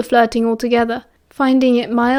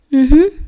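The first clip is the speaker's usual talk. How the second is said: louder hummed reply with a sigh; sighed mm-hmm; 3 semitones higher, 5 dB louder than usual. A narrator's reading. Remus answers James's talk of winning Evans over, sighing. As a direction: sigh out a noncommittal hum. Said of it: "Remus sighed".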